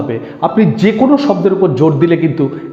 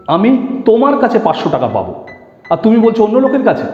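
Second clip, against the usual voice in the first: তোমার pitched up as the key word; stress on তোমার; 4 semitones higher than usual. Shown as a demonstration. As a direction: lean on তোমার, keep the rest lighter. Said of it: "তোমার কাছেটা important".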